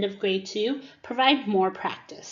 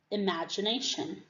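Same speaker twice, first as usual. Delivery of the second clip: syllable clapping. Shown as a demonstration. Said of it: "Clap the syllables".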